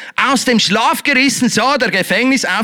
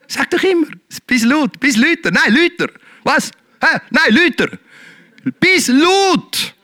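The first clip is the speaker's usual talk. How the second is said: calling the crowd to shout louder; high, louder call; 6 semitones higher than usual. Shown as a demonstration. Preacher urging the congregation to shout louder. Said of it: "Brauch deine Stimme".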